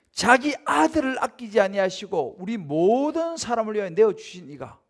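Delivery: scripture reading. Acted. Reads Bible verse.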